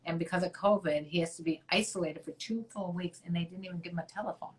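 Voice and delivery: normal talking voice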